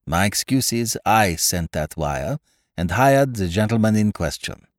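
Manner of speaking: put-on lightly French-accented detective, measured; Poirot, apologetic. Poirot voiced in story.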